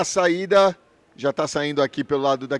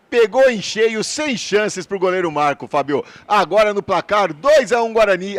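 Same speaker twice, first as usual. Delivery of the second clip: excited; 4 semitones higher, 4 dB louder than usual. Real, not acted. Reporter hails the goal.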